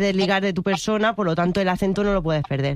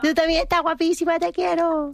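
much higher, sugary cooing tone; returning the compliment in a cooing voice; cutesy affectionate farewell; 9 semitones higher than usual. Real, not acted. Gushing farewell between friends.

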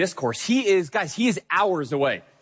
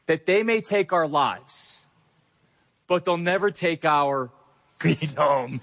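put-on earnest movie battle cry in his own voice, no accent, slowed on the big lines; rally the troops like Braveheart, but lightly; William Wallace speech. Pastor reciting the Braveheart speech to his congregation, mildly rousing.

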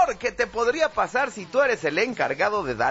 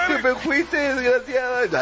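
raised, hammed-up lament; drunken lovesick wail; 3 semitones higher than usual. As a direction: accuse the one who left. Drunk man wailing over his ex.

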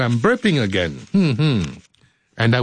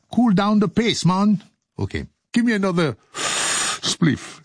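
mock stoned voice; 5 semitones higher than usual. Host joking on tape, lightly voiced stoner. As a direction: play a dazed guy asking for a joint. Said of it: "I've been drinking Sky Juice".

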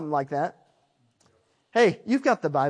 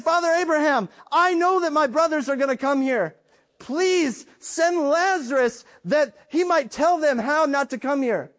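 pleading rich man; 4 semitones higher than usual. Retold or imitated. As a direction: implore Father Abraham for help. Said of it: "He said".

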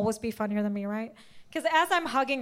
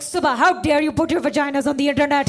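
mock outraged mom; 6 dB louder than usual. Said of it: "freaking the fuck out".

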